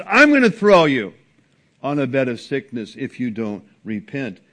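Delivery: loud, stern repeat of God's threat. Retold or imitated. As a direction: hit the opening hard and loud. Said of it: "But God says".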